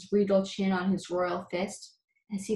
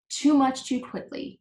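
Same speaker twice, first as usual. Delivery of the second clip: higher wheezy gasp between gulps; wheezing; 6 semitones higher, 4 dB louder than usual. Acted. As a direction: wheeze it out, gulping air. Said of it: "wheezed the uncomfortable Bud between gulps".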